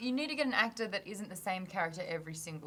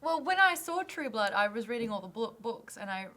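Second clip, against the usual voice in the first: lightly put-on Southern accent; Southern accent attempt. Shown as a demonstration. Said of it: "in the Southern accent the entire time".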